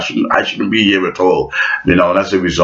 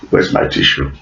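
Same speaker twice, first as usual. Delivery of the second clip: mock whisper; 6 semitones lower than usual. Vlogger pretends to tear up and whispers for a tissue. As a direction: whisper it as a pretend tearful aside. Repeated unvoiced.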